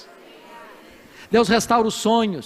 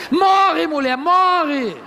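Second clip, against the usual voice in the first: mocking payback; 7 semitones higher, much slower than usual. Brazilian Job gloating at his wife, slow and mocking. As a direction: drag it out slowly, gloating. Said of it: "se Jó fosse brasileiro, ele falaria".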